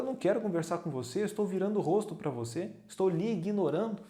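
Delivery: mock cold brush-off; God turning away. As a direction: rattle it off lightly, as if brushing someone off.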